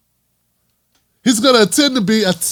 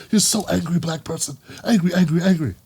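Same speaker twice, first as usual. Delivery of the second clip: mock dismissive taunt; 4 semitones lower, 6 dB quieter than usual. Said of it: "Then you are getting emotional".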